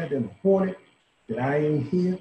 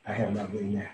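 usual speaking voice

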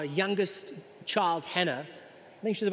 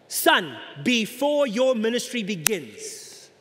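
voice of God; 3 semitones higher, slower than usual. Acted. Pastor voicing God from heaven.

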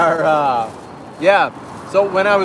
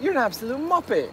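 high, playful British jab; a hint of a British mate; mock British insult; 9 semitones higher, 6 dB quieter than usual. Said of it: "you'd be like".

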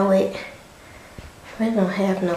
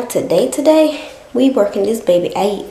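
hyped up; 2 semitones higher, 5 dB louder than usual. Real, not acted. Hyping herself up to work out.

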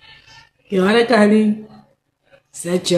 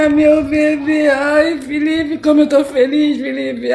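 excited squeal; 8 semitones higher, 4 dB louder than usual. Acted. Announces pregnancy to lover.

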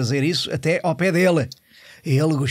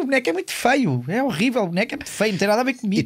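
a politician whining about his puppet, much higher; high whiny mock politician; 8 semitones higher than usual. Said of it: "E depois ele falou". (queixa aguda e chorosa de político)

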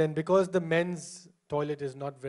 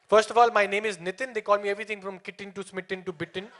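usual speaking voice

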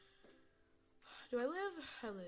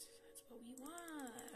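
slow, higher, voiced repeat; slow voiced take; 4 semitones higher, 4 dB quieter, much slower than usual. Gamer teasing viewers, slow and voiced after whispering. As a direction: draw it out slowly and sing-song.

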